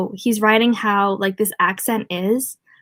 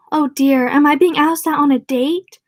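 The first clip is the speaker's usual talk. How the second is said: a slightly higher, slow, coy mock flirt; 5 semitones higher, 4 dB louder, slower than usual. Bev teasing Richie, mock coy at being asked out. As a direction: tease him like a lady being asked out. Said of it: "pretended to primp her hair".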